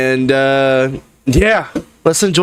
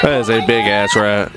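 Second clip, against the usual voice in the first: laughing disbelief at a rat; 5 semitones lower than usual. Real, not acted. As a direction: laugh through the words. Reacting to a rat clip.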